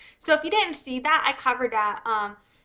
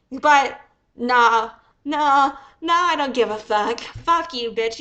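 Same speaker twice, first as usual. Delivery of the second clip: loud, heated brush-off; angry dismissal; 5 dB louder than usual. Real, not acted. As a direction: shut her down, fed up. Angry reversal at the woman.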